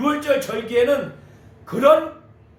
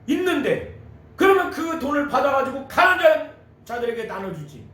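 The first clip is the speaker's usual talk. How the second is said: imitating indignant grumbling, pitched up in places; angry disciples; 4 semitones higher, 4 dB louder than usual. Disciples protesting the waste to each other, angry. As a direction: demand an explanation as an outraged disciple. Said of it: "자기들끼리 화가 나가지고 말하고".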